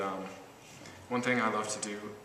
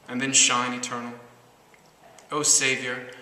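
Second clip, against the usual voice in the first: measured poem recital with deliberate pauses; phrase it line by line, leaning on opening words; poetry reading. Acted. Poet reads love poem to an audience, measured recital.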